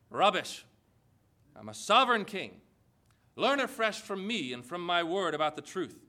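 firm, lightly voiced sovereign God; God's rebuke. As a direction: declare it with royal authority, emphatic on key words. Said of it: "What does God say to all this".

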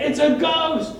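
mock-terrified cry; acted fright. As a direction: blurt it out like a scared sailor. Frightened disciples see a figure.

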